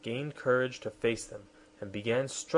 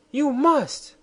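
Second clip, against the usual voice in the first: high, loud insistent "You must!"; queen crying out at her private; cry of command; 8 dB louder than usual. Acted. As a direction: demand obedience at once. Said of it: "cried Anne".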